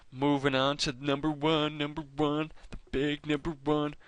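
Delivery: excited build-up. Real, not acted. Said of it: "So excited to get to number one".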